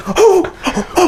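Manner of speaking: imitating a flustered woman, very high squeaky oh's; retold assistant panicking, high-pitched oh's; mock high flustered oh's. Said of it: "and she goes".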